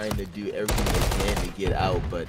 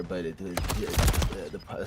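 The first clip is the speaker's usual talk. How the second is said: stuttering; 3 semitones lower, faster than usual. Real, not acted. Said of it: "I'm stuttering".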